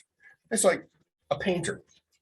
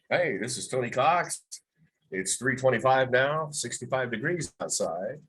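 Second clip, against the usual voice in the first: retold upbeat DJ intro, lightly voiced; radio intro again; 2 semitones higher than usual. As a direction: replay the old on-air opener, breezy. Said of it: "I was doing".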